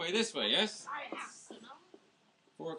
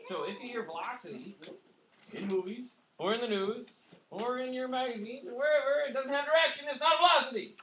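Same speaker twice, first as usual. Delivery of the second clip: building emphasis; 6 semitones higher than usual. Real, not acted. Teacher builds to emphatic point.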